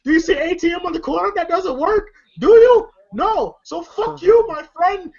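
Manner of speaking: high-pitched mock Arab accent, indignant. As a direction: imitate an exasperated rant in an Arab accent. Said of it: "like, an Arab accent".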